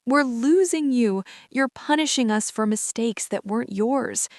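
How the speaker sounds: crying. Acted. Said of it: "Mom started crying immediately".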